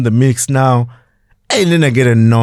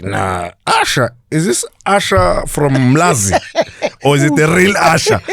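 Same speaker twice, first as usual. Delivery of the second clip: mock suspicion; 5 semitones higher than usual. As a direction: draw it out like you don't believe him. Doubting the caller is real.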